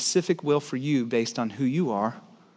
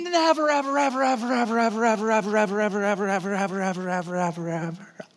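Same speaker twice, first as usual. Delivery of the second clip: running out of breath; 4 semitones higher, faster than usual. Real, not acted. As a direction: keep saying "ever" until the air runs out. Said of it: "ran out of breath".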